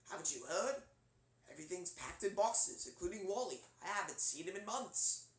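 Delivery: lightly voiced, measured British character; musing with a restrained British accent; Rob the Robot. Shown as a demonstration. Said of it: "Rob would be sort of like".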